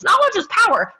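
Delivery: lightly sarcastic quote of a cliché; mocking air quotes. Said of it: "with their little air quotes".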